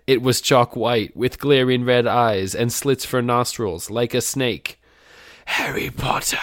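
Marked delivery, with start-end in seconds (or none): 5.4-6.4 whisper. A narrator's reading. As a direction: whisper the name like a menacing ghoul. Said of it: "it whispered".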